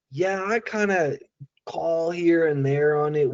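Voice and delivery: mock candidate beating around the bush; unsure hedging. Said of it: "beating around the bush with it".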